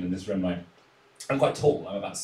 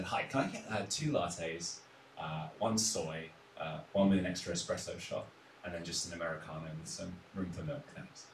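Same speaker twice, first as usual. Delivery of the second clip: coffee order; 3 semitones lower, 10 dB quieter than usual. Retold or imitated. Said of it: "I gave my order exactly like this".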